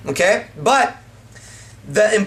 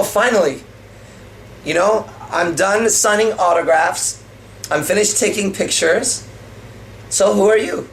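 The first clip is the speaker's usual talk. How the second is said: cocky; 2 semitones higher than usual. Shown as a demonstration. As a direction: act like you're tired of fans. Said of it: "very cocky".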